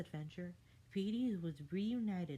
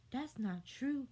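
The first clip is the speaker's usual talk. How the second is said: Fair Fairy; 6 semitones higher than usual. A narrator's reading. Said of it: "says the Fair Fairy".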